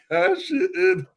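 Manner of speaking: high-pitched mock fan chant; imitated crowd shout. Retelling the crowd's chant, high mock shout.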